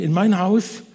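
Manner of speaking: a woman shouting in disbelief; overjoyed high-pitched cry; excited shout. Acted. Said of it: "schrie sie".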